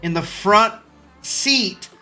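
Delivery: worked-up, cursing fan rant; heated rant. Acted. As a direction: vent like a fed-up fan who has had enough. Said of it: "Rant starting now".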